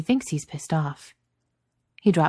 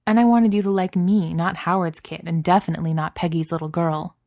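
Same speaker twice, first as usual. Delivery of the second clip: pitched up and louder, pleading; heated outburst; 5 dB louder than usual. Acted. Tony pleading with Steve to see her, raised and pushing. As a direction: blurt it out, stung and defensive.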